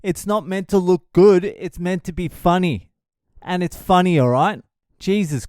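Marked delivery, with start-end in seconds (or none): 0.0-2.9 defensive. Retold or imitated. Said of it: "I'm like".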